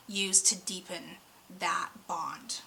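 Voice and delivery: slow breathy whisper. Real, not acted. Reader advising viewers on deepening the bond, whispered. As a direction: drop into a whisper on the last words. Intimate advice drops to whisper.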